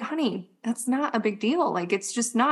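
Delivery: softly soothing a worried son; reassuring mom. Retold or imitated. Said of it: "I'm like".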